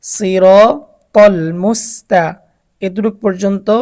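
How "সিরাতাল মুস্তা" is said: সিরাতাল মুস্তা broken into short recited pieces; unstretched syllables. Shown as a demonstration. Teacher showing where no stretch comes, measured piecewise recitation of সিরাতাল মুস্তা. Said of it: "দ্রুত পড়তে হবে".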